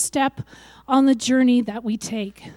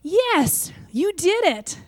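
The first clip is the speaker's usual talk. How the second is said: praising parent; 6 semitones higher, slower than usual. Retold or imitated. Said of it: "her parents' response back was".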